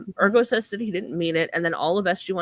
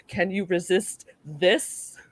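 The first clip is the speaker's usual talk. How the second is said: seductive; slower than usual.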